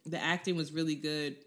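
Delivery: talking while eating; words round a bite of food; mouth full. Real, not acted. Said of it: "I'm sorry, I'm eating right now".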